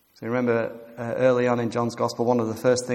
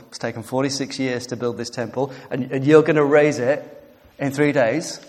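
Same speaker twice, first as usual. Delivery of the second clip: incredulous; 5 dB louder than usual. Retold or imitated. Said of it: "And the Jews replied".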